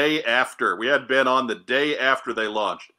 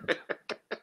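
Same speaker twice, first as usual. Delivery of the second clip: sinister laugh; 9 dB quieter than usual. Acted. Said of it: "I've been doing my sinister laugh".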